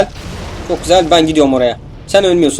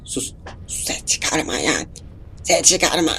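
hushed unvoiced whisper, slow; whisper to self; 11 dB quieter, slower than usual. Real, not acted. Sneaking past enemies, whispering to himself to stay quiet. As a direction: shush yourself in a breathless whisper.

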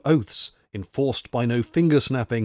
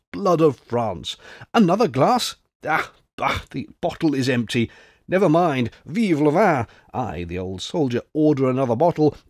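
lightly voiced jovial veteran, lively; old French soldier; 2 semitones higher than usual. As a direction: toast your English friend like a merry old grenadier. Old soldier praises the Englishman.

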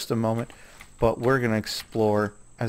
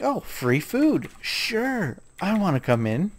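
high, slow mock bird voice; birds' voice; 8 semitones higher, slower than usual. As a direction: play the greedy birds, pitched up. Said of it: "They're just like".

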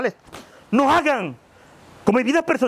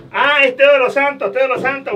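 loud name correction; 3 semitones higher, 7 dB louder than usual. Acted.

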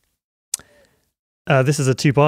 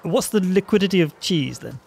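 higher, eager crypto bro; degenerate DeFi guy; 5 semitones higher than usual. Acted. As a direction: play the keen crypto newbie. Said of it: "Who's gonna be the degenerate DeFi guy?".

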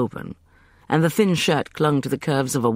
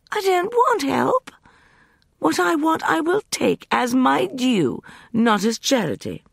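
high, slow, cold refusal; proud refusal; 13 semitones higher, 3 dB louder than usual. A narrator's reading. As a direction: deny every word coldly. Justin refuses.

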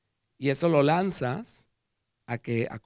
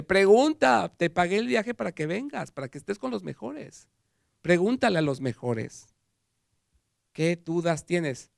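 urging professor; 5 semitones higher, 5 dB louder than usual. Retold or imitated. Professor urging him, quoted.

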